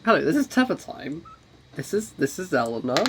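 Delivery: podcast intro voice. Shown as a demonstration. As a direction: announce it like a podcast host. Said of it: "sexy podcaster voice".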